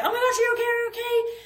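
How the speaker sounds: mock the frantic crew checking on you; imitating panicked boaters. Boat crew calling to the fallen riders, mock panicked high cries. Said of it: "like, panicking".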